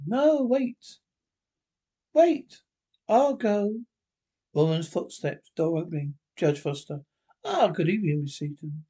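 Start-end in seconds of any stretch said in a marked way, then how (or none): 0.1-3.8 higher, louder urgent no; emphatic. Acted. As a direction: stop him from going, cutting in urgently. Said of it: "Sarah, emphatically".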